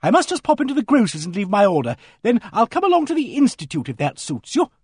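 a hearty woman calling out loud; hearty booming voice. Acted. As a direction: boom it out across the street. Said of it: "hearty voice boomed out".

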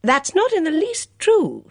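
loud, stung protest from the son; indignant. A narrator's reading. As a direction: bristle at the accusation. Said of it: "said Edmund indignantly".

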